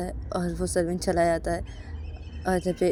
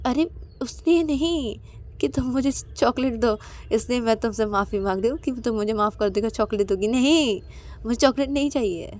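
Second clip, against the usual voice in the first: pleading protest; 4 semitones higher than usual. Acted. Ananya denies apologizing just for chocolate, pleading protest. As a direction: plead that it was never about that.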